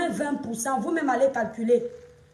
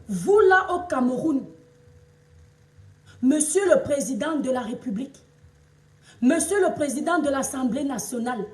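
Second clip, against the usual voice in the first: raised, ringing harangue at the country's leaders; loud, defiant appeal to the authorities; indignant public address; 2 semitones higher, 3 dB louder than usual. Real, not acted. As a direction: call out the president and ministers, stretching out the key words. Haranguing the president and ministers.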